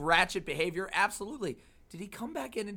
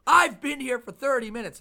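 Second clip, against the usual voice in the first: mock complaint; 8 semitones higher, 10 dB louder than usual. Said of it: "And it's like".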